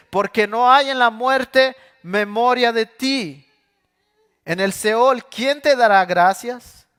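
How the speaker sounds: high, loud, slow lament; anguished lament. Acted. David asking God who praises from the grave, loud slow lament. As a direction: wail the question to heaven.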